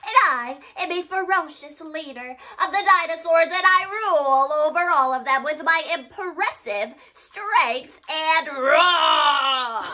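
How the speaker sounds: fast, bold boast ending in a roar; fierce dinosaur leader. Pretend. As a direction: brag like the dino king. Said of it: "It's Paintysaurus".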